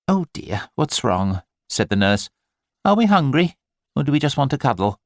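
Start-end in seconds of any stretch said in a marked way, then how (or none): 0.1-1.4 lightly voiced chirpy nurse; fussing nurse. Nurse comforting crying baby. 2.8-5.0 high, cooing nurse voice; lightly voiced chirpy nurse; fussing nurse.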